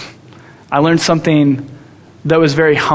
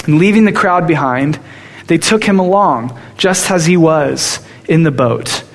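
scripture reading. Acted. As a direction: read the verse with weight. Reads scripture aloud.

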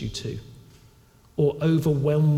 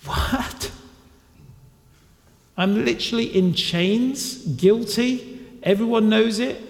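amazed prisoner; 4 semitones higher than usual. Retold or imitated. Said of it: "he probably can't believe his luck".

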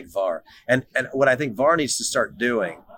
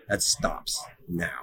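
stern dad; 5 semitones lower, 6 dB quieter, much slower than usual. Retold or imitated. Dad laying down law.

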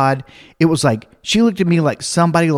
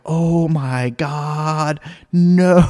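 mock horror; much slower than usual. Storyteller reacts in mock horror.

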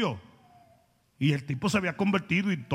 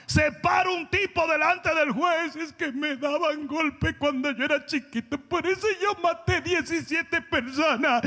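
higher, slow sarcastic preaching; mock-outraged preaching; 7 semitones higher than usual. Real, not acted. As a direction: drag it out with scorn. Predicando con burla. (predicación burlona, aguda y lenta)

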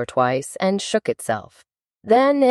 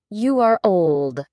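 poem recitation; 4 semitones higher, much slower than usual. Acted. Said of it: "said the youth".

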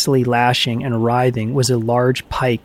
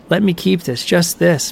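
higher-pitched plea; pleading; 5 semitones higher than usual. A narrator's reading. Dwarf pleads again to keep the ring, higher pleading. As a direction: plead for it, voice lifted. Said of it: "pleaded the dwarf".

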